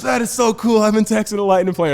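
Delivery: high, loud redneck excitement; pumped Florida redneck. Acted. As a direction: gush like a thrilled Florida redneck fan. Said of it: "he's, like, loving it, like, pumped".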